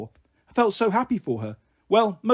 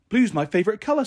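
put-on higher, happy little-girl voice; 5 semitones higher than usual. Little sister delighted with her fairy frock, happy. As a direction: chirp it like a pleased child. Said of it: "said Bliss happily".

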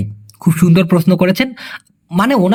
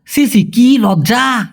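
slow shocked tutting; 3 semitones higher, much slower than usual. Shown as a demonstration. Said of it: "আবার আমরা বলি না".

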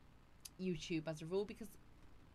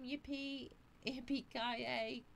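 mock cheer; 6 semitones higher, much slower than usual. Cheer at a viewer's name.

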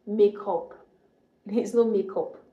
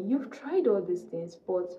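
gentle inner voice. Retold or imitated. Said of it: "the Holy Spirit told me".

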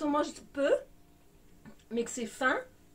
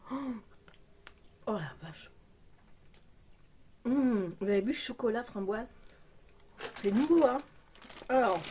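chewing while talking; talking between bites; mouth full. Real, not acted. Seen 2: Bites raspberry chocolate at -1, chews and bites again while speaking.

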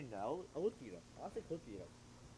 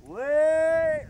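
loud high yelp to stop them; sudden shout; 12 semitones higher, 16 dB louder than usual. Real, not acted. Friend shouts at mate mid joke, loud yelp. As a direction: cut in with a sharp yell.

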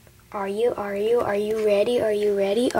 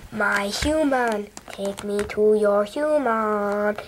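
slow robot speech; 3 semitones lower, much slower than usual. Pretend. Robot voice to viewer.

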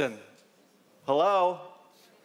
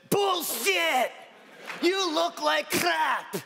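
mock shout; 12 semitones higher, much slower than usual. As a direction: bark it out as the blunt patient. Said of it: "she looked at me and she said".

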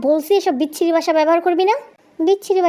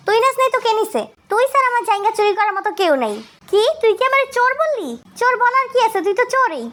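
high-pitched indignant bickering; acted high, squabbling outrage; heated accusation; 6 semitones higher than usual. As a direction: throw the blame back hotly. Acted quarrel, accusing of theft.

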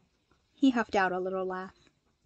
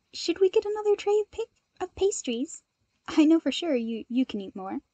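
giggling; 6 semitones higher than usual. Acted. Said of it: "Midoriya asked through his giggles".

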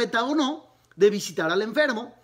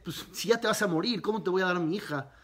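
quick, softer, laughing mockery; mocking laugh; 2 semitones lower, 4 dB quieter, faster than usual. Prophet laughing at the dying king, mocking and hushed. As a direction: tease him with a chuckle, rushed and hushed. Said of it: "se burla y dice".

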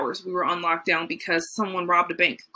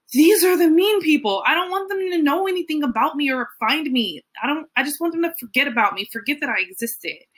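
anxious inner plea; 6 semitones higher than usual. Retold or imitated.

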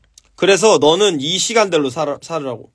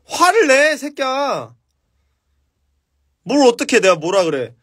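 화를 내 새끼야 barked high; mock angry snap; 6 semitones higher, slower than usual. Shown as a demonstration. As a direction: act out a harsh angry jab. Coaching someone to get angry. (화난 척 내뱉는 말투)

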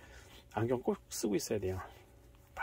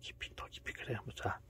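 soft hushed whisper; 2 semitones lower, 8 dB quieter than usual. Real, not acted. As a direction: coax it gently to sleep. Lulling the pet to sleep.

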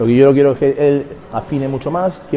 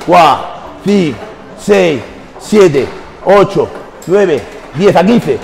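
counting workout reps. Real, not acted. Coach counting reps during set.

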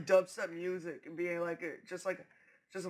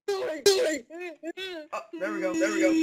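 excited; 10 semitones higher than usual. Real, not acted. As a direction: cheer it out. Excited in-game moment.

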